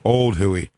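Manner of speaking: slow "Huey" said as HOO-ee; wrong "Huey", drawn out with no y glide; mispronounced Huey. Acted. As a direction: stretch "Huey" out like "hooey". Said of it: "I'm gonna call him Huey".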